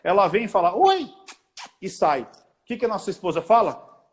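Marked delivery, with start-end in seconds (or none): 0.8-1.1 very high-pitched hello; put-on high greeting; imitated girlish greeting. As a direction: chirp it high, imitating her. Imitating a friend's new girlfriend greeting.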